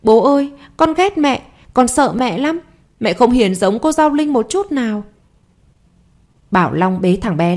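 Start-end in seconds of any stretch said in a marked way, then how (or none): 0.0-5.0 put-on crying child. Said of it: "vừa khóc vừa nói".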